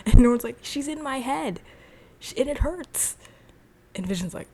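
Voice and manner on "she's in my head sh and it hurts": high-pitched retold panic; mock-distressed, pitched well up; freaking out. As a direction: imitate a tormented man in a high voice. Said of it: "keeps freaking out".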